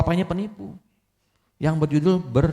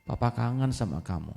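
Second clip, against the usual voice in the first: much softer, dying father; weak, tender; 2 semitones lower, 8 dB quieter than usual. Acted. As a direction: breathe the words out fondly. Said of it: "dia bilang". (ayah berbisik lemah rindu anaknya)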